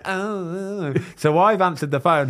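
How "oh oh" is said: excited gasp. Retold or imitated. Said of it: "they're going".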